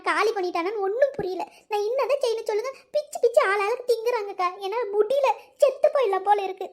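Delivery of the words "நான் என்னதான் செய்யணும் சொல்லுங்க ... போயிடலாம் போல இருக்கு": tearful despair. Acted. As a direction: lament as if close to tears. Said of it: "அழாத முதல்ல".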